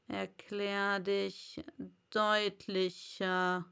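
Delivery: slow, stern caterpillar; stern Raupe. Acted. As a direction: demand it sternly and slowly. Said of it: "fragte die Raupe strenge". (strenge, langsame Raupe)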